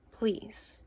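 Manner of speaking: a bare whispered please; real whisper, barely voiced. Real, not acted. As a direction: breathe it out as a real plea. Pleading with viewer after account.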